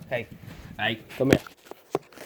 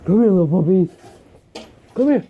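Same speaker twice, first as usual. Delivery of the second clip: loud call; 4 semitones higher, 9 dB louder than usual. Real, not acted. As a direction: call out loud across the room. Calling the puppy loudly.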